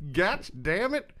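slow, laughing mock repeat; laughing echo. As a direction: echo it back while laughing. Laughing echo of caller's phrase.

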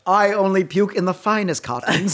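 lightly voiced snooty aristocrat; a hint of a posh toff bragging; mild mock haughty voice; mock fancy voice. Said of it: "Yeah, like that".

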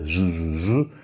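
"j" with lips pushed forward and pressed. Shown as a demonstration. Teacher showing the "j" with pouted lips. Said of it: "meine Lippen schon zusammenpresse".

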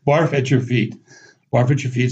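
"Barf at your feet" enchaîné vite, d'un seul souffle; said fairly quickly. Shown as a demonstration. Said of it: "But you say it fairly quickly".

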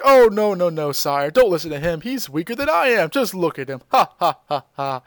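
lightly voiced sly old advisor; a touch of dismissive fake laugh; fawning villain. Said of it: "Paragus is like".

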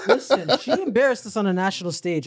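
laughing while telling it; amused, talking through laughter. Real, not acted. Laughing at friend's story.

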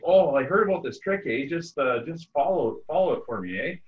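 mock Canadian hoser explaining a scheme, eh; Canadian redneck accent. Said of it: "ultra stereotypically Canadian".

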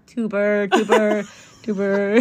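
practising a Dutch accent, giggling. Shown as a demonstration. Warming up for co-host, Dutch accent. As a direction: repeat it to find the Dutch accent. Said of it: "I have to say, like".

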